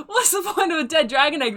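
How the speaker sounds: mock Cockney shout through laughter; laughing bad Cockney. Heckler redoing the Cockney jeer while laughing. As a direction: try the heckle again, giggling. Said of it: "they kinda shout out".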